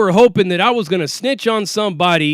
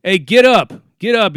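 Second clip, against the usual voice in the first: loud, barked wake-up call; deputy yelling at a motionless inmate, louder; 2 semitones higher, 5 dB louder, slower than usual. Retold or imitated. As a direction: order the man up, loud and sharp. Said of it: "He's yelling at the guy".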